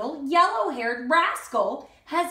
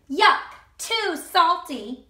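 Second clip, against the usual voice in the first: higher, slow disgusted yuck; disgusted Goldilocks; 4 semitones higher, 4 dB louder, slower than usual. Acted. Goldilocks tasting porridge, slow and disgusted. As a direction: pull a face at salty porridge.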